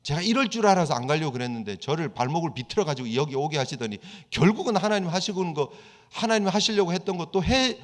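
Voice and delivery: Jonah complaining angrily. Retold or imitated. Jonah grumbling to God that he was right, mock indignant. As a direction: play Jonah griping that he was right all along. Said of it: "그러면서 화내는 거예요".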